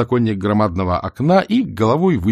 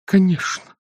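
forced out; 11 semitones higher than usual. A narrator's reading. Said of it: "выдавил он".

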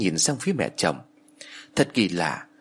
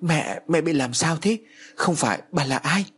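higher-pitched, startled questioning; mildly voiced panic, pitch lifting on the questions; frightened outcry; 6 semitones higher than usual. A narrator's reading. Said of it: "Quá sợ hãi ... thốt lên".

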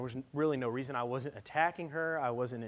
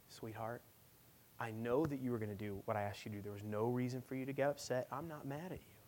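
gentle, lower voice of a comforting father; tender reassurance; 3 semitones lower, 5 dB quieter than usual. Retold or imitated. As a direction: softly soothe an upset child. Father holds and reassures crying daughter.

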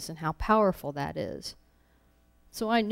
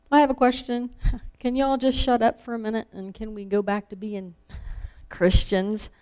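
mock outburst; 4 semitones higher, 4 dB louder than usual. Imagined outburst at the meeting.

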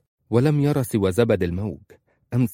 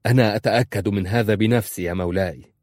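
joyful; 4 dB louder than usual. Acted. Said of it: "في فرح".

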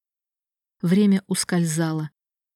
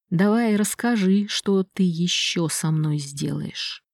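slow menacing taunt; slower than usual. Acted. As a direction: taunt him slowly, coldly. Gabar taunts his brother. (медленная холодная насмешка)

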